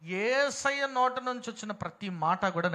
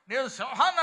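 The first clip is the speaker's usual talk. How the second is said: higher, louder mock shout; imitating a loud shout; 6 semitones higher, 8 dB louder than usual. Preacher mimicking a man shouting at a meeting, loud. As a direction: play a man bellowing his claim. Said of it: "ఒక ఆయన గట్టిగా చెబుతున్నాడు".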